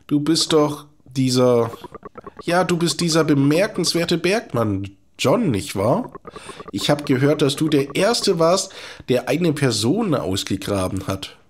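a hint of a chatty, nervous old doctor; lightly voiced quack doctor. Doktor Boguta chatting to the miner John, lightly voiced quack. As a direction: talk like a fussy little quack, rambling on.

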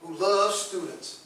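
proud, eager self-introduction; upbeat pitch line. Shown as a demonstration. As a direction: sell yourself with energy. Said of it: "But if you put".

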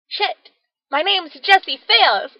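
high flustered oops; sudden realization. Retold or imitated. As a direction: caught off guard, high. Realizing she gave wrong name.

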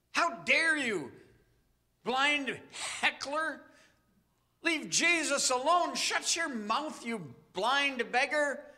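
a touch of angry heckling from the crowd; mock abusive crowd. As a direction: scold the beggar to be silent. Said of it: "ready to shout back abusive words".

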